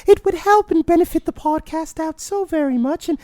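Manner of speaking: very high, dainty mock announcer; polite begging in a silly falsetto; put-on host voice. Mock polite podcast outro in character.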